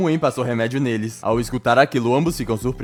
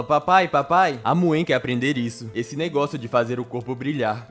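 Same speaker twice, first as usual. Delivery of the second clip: put-on excited little girl. Little daughter running to her father, excitedly calling papa. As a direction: call papa like an eager small child. Little Muen runs up to dad.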